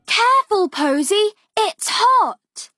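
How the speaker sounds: warning mother. Acted. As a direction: warn the child off the hot oven. Mother warns Posy at hot oven.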